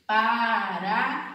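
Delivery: Paraguai drawn out slowly, ending on a rise; teacher showing the tritongo in Paraguai; slow clear demo. Shown as a demonstration. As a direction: stretch Paraguai for the class to hear. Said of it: "Olha só".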